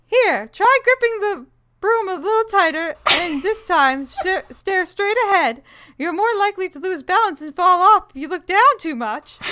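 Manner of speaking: high coaching character voice; Rolanda character voice. Acted. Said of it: "my character voice".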